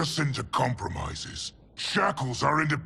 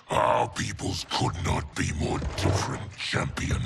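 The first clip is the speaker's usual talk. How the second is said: put-on drunken sneer; 14 semitones lower than usual. Drunk general sneers at guest.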